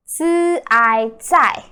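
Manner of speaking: 自爱在 drawn out slowly, sound by sound; slow syllable demo. Shown as a demonstration. Teacher slowly sounding out 再 for the learner. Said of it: "literally means again".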